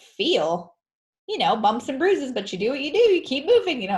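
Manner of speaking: awkward, flustered, caught-off-guard high voice. Retelling his reply when she asked how that made him feel: retelling in high awkward voice. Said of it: "high pitched right. voice, like awkward".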